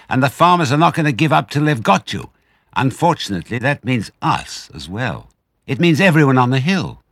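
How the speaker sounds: high, loud angry warning; furious badger. Badger scolding Fox for the farmers, loud furious. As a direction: make him see the damage. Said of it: "said Badger furiously".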